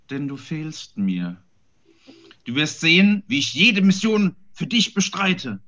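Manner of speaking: grand declaiming poem reading; hammy stage actor. Acted. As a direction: recite it like a lovesick knight. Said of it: "Dol deklamiert".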